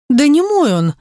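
a touch of outraged denial; indignant. A narrator's reading. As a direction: snap back, offended. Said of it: "тут же возмутилась роковая красотка".

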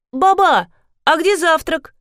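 высокий звонкий голос девочки, капризно; капризная школьница требует завтрак; девочка-подросток. A narrator's reading. Девочка зовёт бабушку. (девочка громко требует завтрак у бабушки, капризно)

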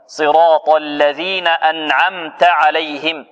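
صراط الذين أنعمت عليهم read slowly; measured Quranic reading; slow recitation. Shown as a demonstration. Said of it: "teacher recites verse correctly".

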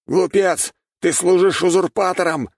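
loud high accusing cry; the goddess's warrior yells at his foe; shouting. A narrator's reading. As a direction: hurl it at the enemy mid-duel. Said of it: "выкрикнул воин богини".

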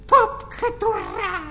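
mocking parrot cry that fades away; a teasing, fading parrot call; parrot squawk. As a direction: parrot squawk, then trailing off. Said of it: "спроси совета у кого-нибудь поглупей".

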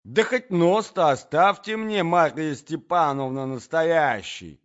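high, loud, dismayed protest; flabbergasted prince exclaiming; stunned outcry. A narrator's reading. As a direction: cry out, begging for mercy from insults. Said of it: "вскричал князь, ошеломлённый такими внезапными откровенностями".

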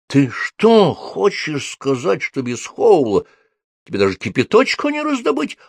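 can't believe it; gasping in disbelief. A narrator's reading. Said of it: "ахнула Софи". (поражённо ахнув)

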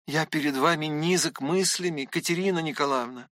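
ordinary delivery

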